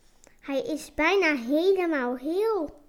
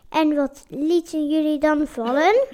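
loud, menacing question from the guard; scary voice; 11 dB louder than usual. A narrator's reading. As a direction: demand it louder, like a creepy watchman. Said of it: "vraagt de enge stem". (enge stem, luid en dreigend)

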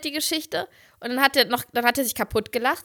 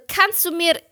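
put-on slow Italian-accented German request; halting, Italian-accented question dropping at the end; Giovanni; 5 semitones higher, much slower than usual. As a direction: imitate an Italian picking out German words slowly. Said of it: "meinte er so".

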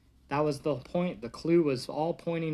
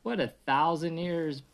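lively read-aloud storybook voice; reading a bedtime story to the kids. Acted. Parent reading to kids, lively storybook voice.

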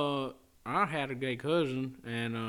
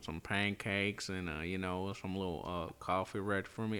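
put-on country accent; 4 semitones lower than usual. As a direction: play a Southern country husband. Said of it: "A little more practice, it'd be believable".

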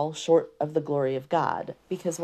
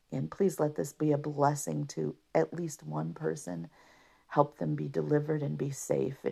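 prayer. Real, not acted. Praying for the listener before the podcast, hushed and earnest.

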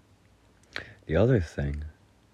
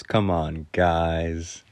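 mock-weary teacher, dryly; dry humor; much slower than usual. Teacher chiding the class over broken glasses, dry humor. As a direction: imitate a teacher's dry reproach. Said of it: "in the driest sense of humor".

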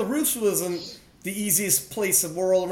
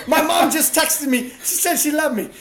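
teary imitation; 7 semitones higher, 4 dB louder than usual. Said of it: "You go".

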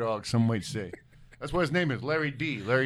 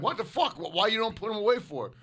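high-pitched mock outrage; indignant retelling; 7 semitones higher than usual. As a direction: act out baffled indignation, voice jumping up. Acts out own indignant reaction.

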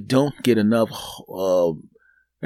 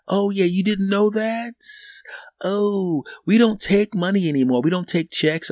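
high teller voice; 9 semitones higher than usual. Retold or imitated. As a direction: play the chirpy teller. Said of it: "teller voice".

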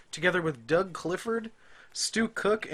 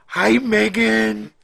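silly voice; 6 semitones higher, 12 dB louder, much slower than usual. Pretend. Reading review title in voice.

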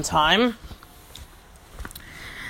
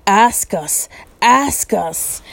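insistent creature, pitched up; Gollum; 2 semitones higher, 3 dB louder, much slower than usual. A narrator's reading. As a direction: press for it like an impatient creature. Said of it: "I'm enjoying this Gollum speech".

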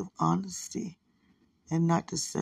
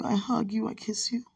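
unvoiced, softer whisper; tender whisper; 3 semitones higher, 5 dB quieter than usual. Real, not acted. Sending hugs and kisses to her partner before sleep. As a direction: whisper each loving word close to the phone.

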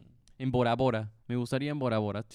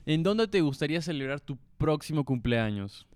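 "¿En dónde te gustaría celebrar tu próximo cumpleaños?" repeated with a little more volume; a bit louder. Real, not acted. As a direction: say it again so everyone hears. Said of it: "puedes hablar un poquito más fuerte".

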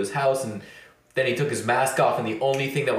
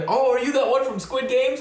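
much higher, eager mock voice; mimicking a stranger; 9 semitones higher than usual. Stranger asking about Squid Games, high mocking voice. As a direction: put on a high, clueless questioning voice.

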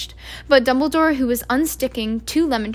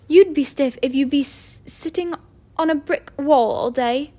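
a hint of a ruffled stern professor, higher; stern witch; 3 semitones higher, 4 dB louder than usual. A narrator's reading. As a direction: put out and a little indignant. McGonagall voiced in story.

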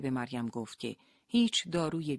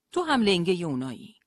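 bitter accusation; 4 semitones higher, 8 dB louder than usual. Acted. Leila accuses her husband.

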